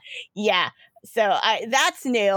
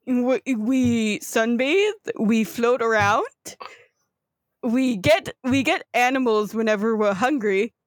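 put-on halting Southern Florida accent; Southern Floridian gator. Gator explaining what they do for fun, Southern Floridian accent. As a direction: list lazy pastimes in a Southern Floridian accent. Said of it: "the gators are the full Southern Floridian".

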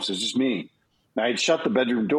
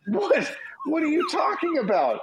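high baffled voice; imitating his own confused reply. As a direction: sound completely lost. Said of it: "I was like".

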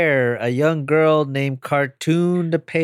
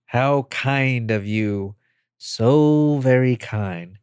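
slow sarcastic gratitude; slower than usual. Acted. Alien villain feigning gratitude.

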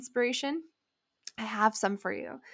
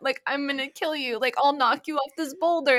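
higher, rushed pleading from a scared climber; retold panicked pleading; 5 semitones higher than usual. Scared climber warning friend off, mock panic. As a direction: beg her friend not to climb up, near tears. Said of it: "I was about to cry".

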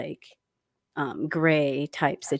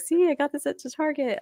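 friend's voice; 10 semitones higher than usual. Retold or imitated. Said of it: "she's like".

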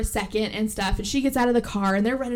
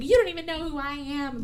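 cold; 5 semitones higher than usual. Retold or imitated. Retold evil twin line.

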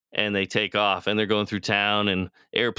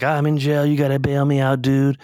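higher, louder pleading voice; frantic brother; 6 semitones higher, 5 dB louder than usual. Retold or imitated. Brother calling from jail, pleading loudly. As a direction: beg to be bailed out, loud.

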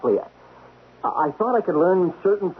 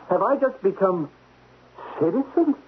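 shocked disbelief; 7 semitones higher than usual. Acted. Shocked at demotion to citizen.

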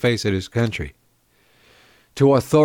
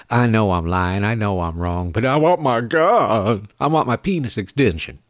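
smug mockery. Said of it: "that smug little smile like".

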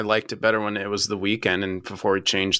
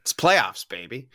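hyped-up cheer; slower than usual. Acted. Hyped-up cheer about the playoffs.

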